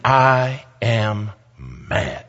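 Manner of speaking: very slow, word-by-word anger; imitated deliberate, drawn-out fury; retold anger. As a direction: stretch each word as the fuming pastor. Imitates the angry pastor.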